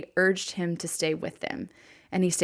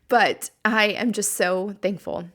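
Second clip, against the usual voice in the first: teary; 2 semitones higher, 4 dB louder than usual. Real, not acted. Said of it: "Sorry to get teary on you".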